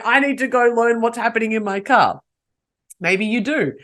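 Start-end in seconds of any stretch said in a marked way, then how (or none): 0.0-2.2 louder, higher pretend panic; mock freak-out. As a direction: imitate a listener getting worked up, raised voice. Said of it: "Some of you are freaking out going".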